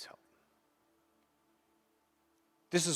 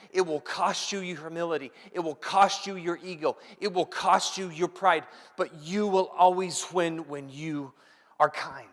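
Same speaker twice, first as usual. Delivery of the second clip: building preach; 3 semitones higher than usual. Acted. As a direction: drive it home. Preaching climax, rising.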